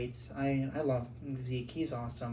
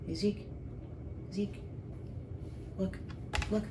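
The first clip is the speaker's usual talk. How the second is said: short, higher-pitched calls to a dog; calling a dog; 6 semitones higher, 3 dB quieter than usual. Real, not acted. Owner calls guide dog Zeke to look, calling out. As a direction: call the dog by name to get his attention.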